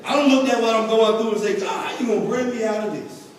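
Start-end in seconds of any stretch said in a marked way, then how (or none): 1.6-3.3 prayer to God. Retold or imitated. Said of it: "I'm talking to God".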